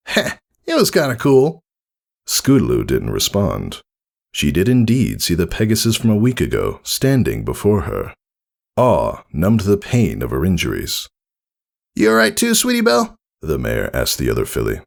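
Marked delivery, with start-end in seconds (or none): 0.1-1.6 high, shy little filly; small admiring voice; lightly voiced filly. Scootaloo answering the mare, shy filly voice. 12.0-13.2 high, brash and friendly; cocky praise from a hero; bold tomboy mare voice. Acted. Rainbow Dash praising Scootaloo after the fight, brash and friendly.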